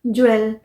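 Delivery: ज्वेल as "jwel", with an open e; common mispronunciation. Shown as a demonstration. Teacher echoes what learners say, mispronounced ज्वेल as jwel. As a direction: say ज्वेल with a w before the e. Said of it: "अभी तक तो हम यही करते हैं ना".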